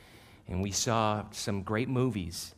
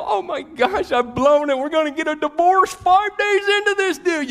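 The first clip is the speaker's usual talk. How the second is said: hammed-up panic; 13 dB louder than usual. Panicking husband outside bathroom door.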